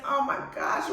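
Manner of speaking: usual speaking voice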